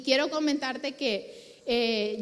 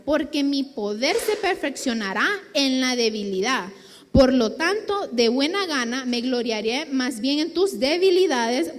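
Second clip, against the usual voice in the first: louder, solemn reading of the verse; scripture reading; 3 dB louder than usual. Acted. Preacher reading Corinthians to listeners, louder and solemn. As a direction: proclaim the passage to the congregation. Reads Bible passage aloud.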